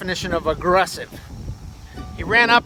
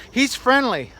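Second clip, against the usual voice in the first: lightly imitated owner, higher pitched; a hint of the lady's high call; imitated dog owner; 7 semitones higher, slower than usual. Lady insisting about her dog, lightly imitated high voice. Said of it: "she said it again".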